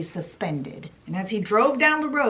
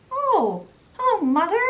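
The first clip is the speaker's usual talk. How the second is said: much higher, cheery working-man voice; chirpy engine driver; 9 semitones higher, 4 dB louder than usual. Acted. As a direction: greet her brightly, pitched way up. Engine driver greets Toad in disguise.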